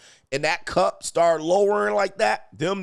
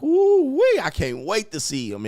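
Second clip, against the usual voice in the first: high, loud whoop easing into eagerness; mock excitement; 6 semitones higher, 4 dB louder than usual. Man before the big reveal, whooping with excitement. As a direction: whoop the opening with giddy anticipation.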